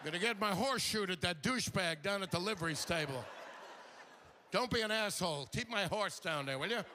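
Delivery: lightly voiced Western cowhand; a hint of a cussing old-West cowpoke; cowboy. Comic parodies Deadwood's cursing cowboys, mock Western voice. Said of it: "no evidence that cowboys talk like this".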